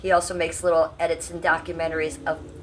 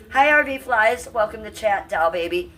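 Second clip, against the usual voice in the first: higher, louder sing-song hello to a regular; a bright announcer-style welcome, pitched up; specialty greeting wave; 4 semitones higher, 4 dB louder than usual. Pretend. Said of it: "that is just my specialty".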